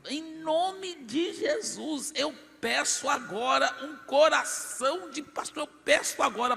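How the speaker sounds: high, slow, fervent prayer voice; lifted, drawn-out prayer in the name of Jesus. Retold or imitated. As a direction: pray it out high with full faith. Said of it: "eu falei".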